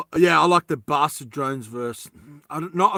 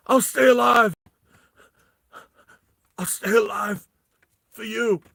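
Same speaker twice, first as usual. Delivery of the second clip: hint of a higher-voiced earnest vow; lightly acted, raised-pitch reply; tent guy's vow; 6 semitones higher, 4 dB louder than usual. Man in tent answering his rescuer, mock-earnest vow. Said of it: "And the guy's in the tent".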